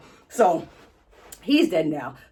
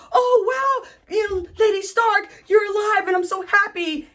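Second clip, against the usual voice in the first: high-pitched, gushing mock delight; Brienne; 11 semitones higher than usual. Loyal knight finding her lady alive, gushing mock joy. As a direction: imitate an overjoyed greeting in a high, excited voice.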